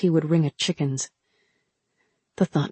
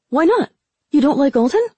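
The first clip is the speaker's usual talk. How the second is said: high, loud cheeky questions; teasing boy voice; 8 semitones higher, 5 dB louder than usual. Acted. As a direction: push her with cheeky glee. Ramsa pushing teasingly.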